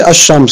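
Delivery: ash-shams with a doubled sh; no l, lean on the sh in "ash-shams"; assimilated lam. Shown as a demonstration. Teacher summing up the rule, l silent and sh doubled in "ash-shams". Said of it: "la lam, ça disparaît".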